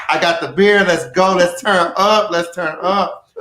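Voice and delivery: rally the crew to turn up; hyped-up party quote. Acted. Acts out party-ready character.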